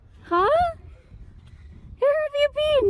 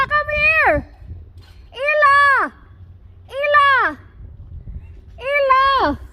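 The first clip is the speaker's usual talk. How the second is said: calling out. Real, not acted. Mother calling the bird back.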